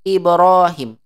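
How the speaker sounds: Ibrahim with the hi said short; short vowel. Shown as a demonstration. Teacher showing the short-vowel Ibrahim to students. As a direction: clip the hi of Ibrahim. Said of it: "Kalau mat baca pendek".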